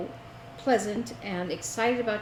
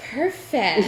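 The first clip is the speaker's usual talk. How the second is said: mock registrar; 3 semitones higher, 4 dB louder than usual. Quoting the registrar to friends in a put-on clerk voice. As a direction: toss off "Perfect" like the cheery registrar. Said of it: "every time you answered anything, it was".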